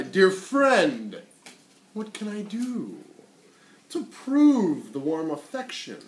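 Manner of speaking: slow, sweet coaxing spider; the spider luring the fly to rest; sly spider. Acted.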